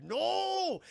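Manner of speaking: high, drawn-out mock protest; alarmed cry. Kong sees the dinosaur about to attack, high mock cry.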